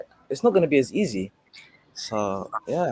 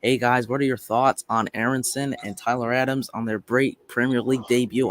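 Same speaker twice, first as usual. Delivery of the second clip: mock American accent. Showing a co-host how the American accent should go, in a slowed mock American voice. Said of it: "It should be like".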